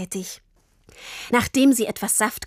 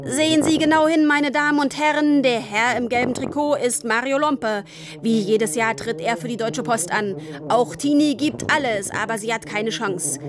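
a dad racing his daughter, hamming up live commentary; race commentator shout. Acted. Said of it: "schrie durch den ganzen Wald".

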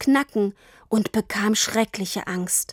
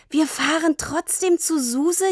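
cheering; 7 semitones higher than usual. A narrator's reading. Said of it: "jubelte Tini".

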